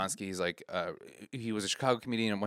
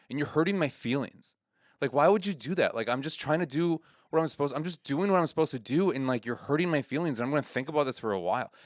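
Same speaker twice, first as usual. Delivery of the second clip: higher-pitched mock hurt complaint; upset, hurt; 4 semitones higher than usual. Comedian guilt-tripping a heckler, imitated upset. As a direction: lay on an earnest guilt trip. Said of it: "my friend gets upset".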